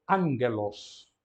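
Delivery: "angelos" slow, with n before a hard g; gamma as N. Shown as a demonstration. Teacher modelling the Greek pronunciation, slow "angelos". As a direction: stretch out "angelos", stressed on the first syllable. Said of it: "Pronúncia".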